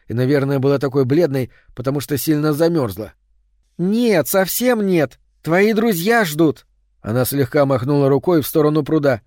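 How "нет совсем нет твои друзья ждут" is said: put-on urging girl. A narrator's reading. Girl urging him outside.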